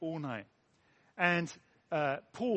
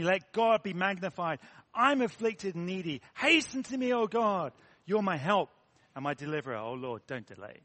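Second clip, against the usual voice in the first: emphatic scripture declamation, projected; fervent psalm reading; 4 dB louder than usual. Acted. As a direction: proclaim the verses as a heartfelt prayer. Continues reading the psalm aloud.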